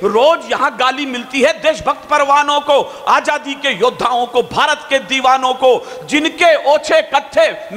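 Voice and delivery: rising, slow patriotic declamation; fiery poem recital. Acted. Poet recites the fresh line to the audience, fiery. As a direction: build the verse like a rally cry.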